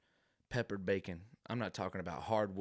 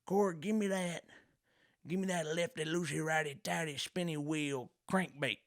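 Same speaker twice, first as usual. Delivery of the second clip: much higher, loud cartoon redneck; hammed-up redneck calling out for bait; 9 semitones higher, 3 dB louder than usual. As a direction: rattle off made-up bait names like a redneck. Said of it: "he might say".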